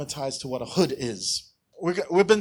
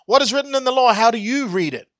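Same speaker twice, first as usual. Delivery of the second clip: questioning Jesus; 7 semitones higher, 7 dB louder than usual. Retold or imitated. Jesus answers the lawyer.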